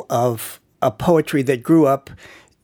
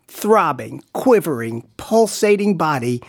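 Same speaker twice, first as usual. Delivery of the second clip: pitchman's voice; 2 semitones higher, slower than usual. Shown as a demonstration. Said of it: "read in your best pitchman's voice".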